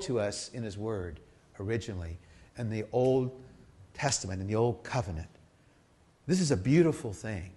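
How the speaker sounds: soft, low, moved and halting; hushed reverence. Real, not acted. Preacher sharing God's heart with the congregation, hushed and reverent. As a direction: let it sink into tender, quiet awe.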